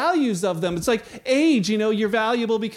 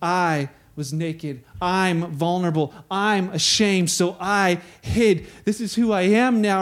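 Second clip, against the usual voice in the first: lower, slow, ashamed confession; a hint of a shamed man admitting it; ashamed Adam; 4 semitones lower, slower than usual. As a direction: drag the words out in shame. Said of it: "what is his words?".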